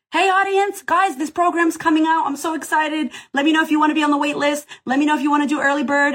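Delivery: high, quick, gushing launch announcement; excited announcement. Retold or imitated. Creator announcing her new program, high and fast. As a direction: rattle off the news fast, bursting with excitement. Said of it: "You have an audience".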